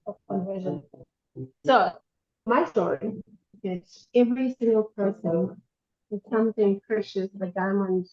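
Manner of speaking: breaking up bad connection; garbled underwater phone line. Real, not acted. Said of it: "your line is breaking. It sounds like you're underwater".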